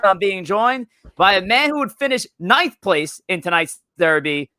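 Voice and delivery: punchy podcast host intro, stretched opening words; live-show host kicking off the broadcast; show-opening announcer. Acted.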